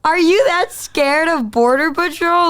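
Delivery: amused, high-pitched incredulous question; incredulous teasing. Retold or imitated. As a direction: rib your partner for being a wimp. Retold teasing disbelief at partner.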